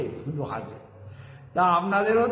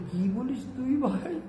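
grandmother's high reply; 6 semitones higher, 4 dB quieter than usual. Retold or imitated.

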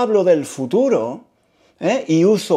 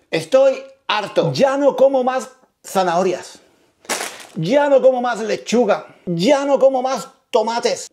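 higher-pitched, acted exasperation; fed-up declaration; 5 semitones higher than usual. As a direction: declare that you have had enough. Acts out being fed up with dieting. (harto, protesta exasperada)

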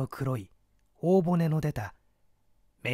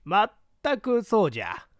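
put-on higher, louder old man voice; creaky wise old man; 7 semitones higher, 5 dB louder than usual. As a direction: voice the old man, raised and pinched. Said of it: "老翁は白扇を震わしながら答える".

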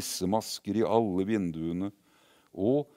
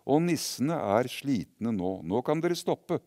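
calling out; 4 semitones higher, 4 dB louder than usual. Acted. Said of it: "ropte gutten".

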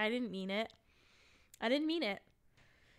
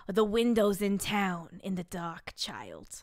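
slow put-on storyteller persona; hammed-up bedtime reader; Judith; 3 semitones lower, slower than usual. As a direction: stretch it out, dropping low at the end. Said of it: "reading this in my Judith voice".

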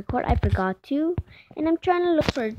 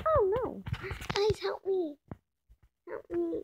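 help me; 6 semitones higher, 5 dB quieter than usual. Real, not acted. Stuck in water.

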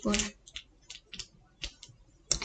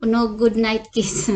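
louder, teasing list of lost kisses; mock husband complaint; 7 dB louder than usual. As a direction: belt it out like a sulking husband. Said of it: "And they said".

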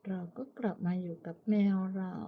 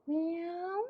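calling a cat; 9 semitones higher than usual. Real, not acted. High call to cat.

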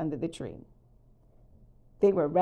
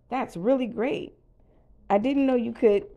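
amazed; 5 semitones higher, 5 dB louder than usual. A narrator's reading. Woody amazed by light show.

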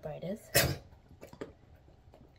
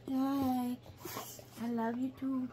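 dog voice; 7 semitones higher, slower than usual. Pretend. Voicing the dog's reply.

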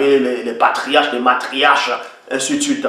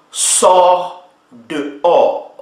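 drawn out; much slower than usual. Acted. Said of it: "traduction John Nelson Darby".

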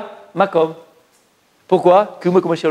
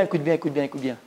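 hushed urging; 5 semitones lower, 11 dB quieter than usual. Real, not acted. Teacher urging students to listen.

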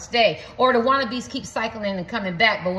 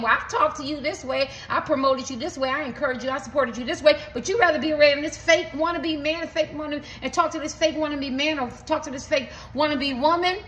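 higher, pleading complaint from a passed-over lover; voicing a hurt client; 5 semitones higher than usual. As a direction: complain like someone who was overlooked, pitched up. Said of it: "this is what you're asking".

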